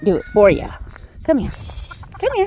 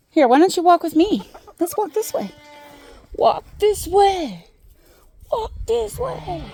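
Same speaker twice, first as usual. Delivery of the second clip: coaxing sing-song; 8 semitones higher than usual. Real, not acted. Coaxing goat to follow.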